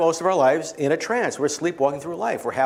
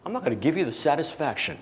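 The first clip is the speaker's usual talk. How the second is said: stubborn sulk; 5 dB quieter than usual. Retold or imitated. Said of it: "He goes".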